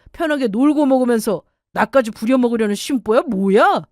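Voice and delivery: put-on voice of a selfish, irritated husband; indignant, scornful husband in a quarrel; contemptuous husband. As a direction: berate your wife as if she were freeloading. Acted husband berating wife.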